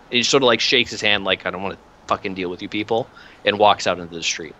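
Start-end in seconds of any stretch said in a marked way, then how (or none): 1.4-3.1 fast, softer dismissive grumble under the breath; fed-up grumble. Acted. Inquisitor brushing past the acolytes, fast fed-up grumble. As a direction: toss it off quickly, done with them.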